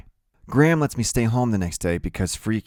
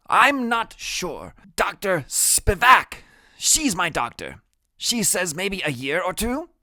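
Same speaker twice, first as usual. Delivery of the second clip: put-on high, slow kid voice; high-voiced little patient explaining; pensive Freak; 11 semitones higher, slower than usual. A narrator's reading. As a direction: pitch it way up, take your time.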